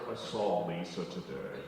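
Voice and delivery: low, slow, lazy dude voice; slow dopey guy. Retold or imitated. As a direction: play a dull bro droning. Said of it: "This one goes".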